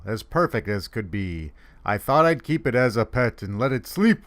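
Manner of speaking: put-on sing-song children's rhyme reading; comic poem recital. Santa reading a funny snowball poem, in a lilting recital. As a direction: recite the verse with a steady bounce.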